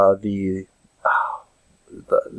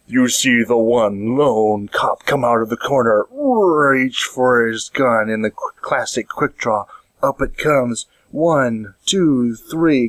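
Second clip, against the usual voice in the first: action-movie narration; 2 semitones higher, slower than usual. Acted. Comedian hypes a lone cop's quick draw, dramatic narration.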